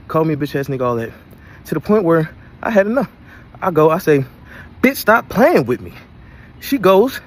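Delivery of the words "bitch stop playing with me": louder and higher, slow, dragged-out yell; angry yell. Retold or imitated. Man fed up with his girlfriend's insults yells back angrily. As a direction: lose patience and let her have it.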